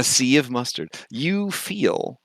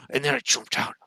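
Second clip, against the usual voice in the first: high, softer, winded gushing; awed excitement; 8 semitones higher, 3 dB quieter than usual. Acted. Bullbug winding down his tale to Phil, awed excitement. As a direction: sigh it out high, still thrilled.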